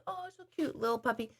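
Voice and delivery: put-on high, soft baby-talk coo over a sick puppy. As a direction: melt over the little puppy, voice way up and hushed.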